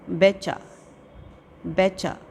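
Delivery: "बेचा" distinctly, with silent T; careful pronunciation. Shown as a demonstration. Teacher giving pupils words to practise, careful pronunciation. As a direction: say "बेचा" as a model to copy. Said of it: "listen to the pronunciation of the".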